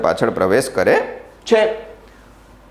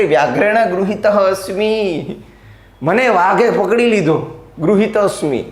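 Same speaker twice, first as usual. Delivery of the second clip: mild fright; 6 semitones higher than usual. Acted. Acting terrified character caught by tiger.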